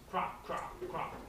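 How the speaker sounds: short separate clops; horse hoof clops. Pretend. Reader imitates horse feet for children, short clops. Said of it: "He can sound like a horse feet".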